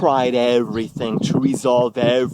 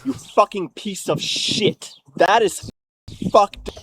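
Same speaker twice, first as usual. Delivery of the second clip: higher, heated outburst; angry, emphatic reproach; real indignation; 5 semitones higher than usual. Real, not acted. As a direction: spit it out, outraged and wounded. Angry outburst about her reply.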